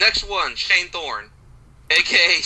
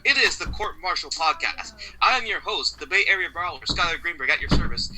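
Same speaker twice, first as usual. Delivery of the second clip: ordinary talk, nothing marked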